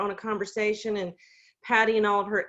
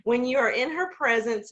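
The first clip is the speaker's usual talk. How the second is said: steadying herself to finish the tribute; sincere restart; 4 semitones higher than usual. Real, not acted. To the Zoom group, praising her friend, a tearful push. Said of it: "gosh, I'm gonna start crying".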